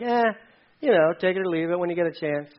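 offhand, take-it-or-leave-it shrug; casual indifference. Acted. Preacher mimicking God's command as mere suggestion, indifferent. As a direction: toss it away as if optional. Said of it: "This isn't like".

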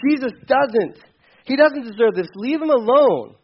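a hint of a stern criminal telling his partner off; rebuking thief. Other thief scolding the mocking thief, firm. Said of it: "But he said".

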